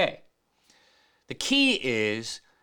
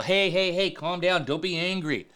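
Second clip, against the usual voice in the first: mock calming; 4 semitones higher than usual. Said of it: "Or we'll advise people".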